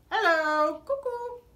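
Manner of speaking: loud then squeaky high cuckoo; sarcastic sing-song hello cuckoo; mocking hello. Real, not acted. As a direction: call him crazy. Mocking Dean.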